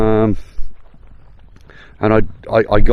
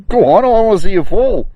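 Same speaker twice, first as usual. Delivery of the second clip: teasing; 3 dB louder than usual. Pretend. Teasing someone to fall.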